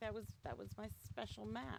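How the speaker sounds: play-acted hushed, rushed, sorrowful murmur, soft and quick. Retelling losing a map to an apartment flood, retelling own sad words. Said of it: "And I was so sad, because I was like".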